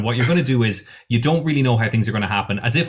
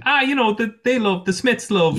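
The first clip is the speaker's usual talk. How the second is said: much higher, mock-keen voice; imitating an enthusiastic gift-buyer; 11 semitones higher than usual. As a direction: lift it right up, gushing as someone else. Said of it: "someone went".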